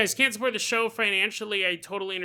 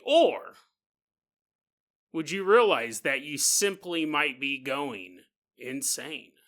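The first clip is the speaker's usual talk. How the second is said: dramatic teaser narration. Acted. Host teases listeners with a paranormal mystery, dramatic narration. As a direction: tease the legend with weighty pauses. Podcast cold open teaser.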